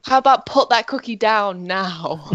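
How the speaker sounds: lightly voiced action-hero quote; a hint of Austrian film star; Arnold Schwarzenegger. Offering a film quote for a friend, mild Arnie impression. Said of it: "Arnold Schwarzenegger quote".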